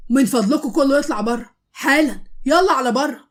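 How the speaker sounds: loud, barking order; angry shout. Acted. Officer orders everyone out in a loud shout. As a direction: clear the room with a furious shout. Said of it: "واتنرفز جامد وهو بيقول".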